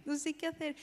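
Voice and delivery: soft, helpless, mildly tearful; re-enacted plea to mother; retold tearful confession. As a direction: confide helplessly, as if near tears. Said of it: "me puse a llorar, le dije".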